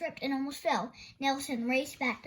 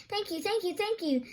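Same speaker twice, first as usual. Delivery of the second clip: grateful; 7 semitones higher than usual. Acted. Nelson thanking Thorndyke gratefully.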